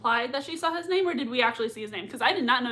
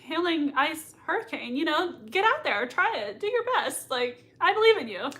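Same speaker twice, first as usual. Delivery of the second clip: sarcastic encouragement; 5 semitones higher than usual. Retold or imitated. Mock pep talk to Ward.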